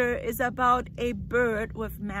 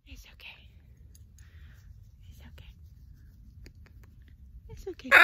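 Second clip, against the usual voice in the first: soft whispered comfort; very soft soothing whisper; whispered reassurance; 21 dB quieter, faster than usual. Real, not acted. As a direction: hush the bird gently. Hushing the frightened bird.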